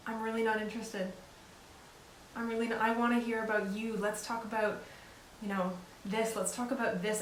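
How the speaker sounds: soft gentle redirect; kindly steer the friend elsewhere. Shown as a demonstration. Friend brings gossip, gently turning it down. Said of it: "Very gently saying".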